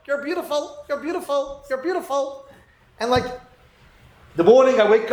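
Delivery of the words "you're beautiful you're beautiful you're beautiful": a hint of a chattering parrot. Parrot greeting its owner after a long day, lightly mimicked. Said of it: "and the parrot go".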